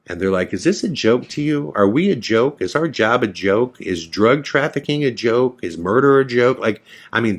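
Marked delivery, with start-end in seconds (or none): 0.5-6.6 mild mock berating, rapid-fire questions; laying into him. Border agents grilling a detained student, indignant scolding. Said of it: "they are laying into me".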